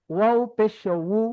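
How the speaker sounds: উ as a slow wu from the lips; lip-made wu. Shown as a demonstration. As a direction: draw উ out through the lips, like wu. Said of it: "ঠোঁট থেকে".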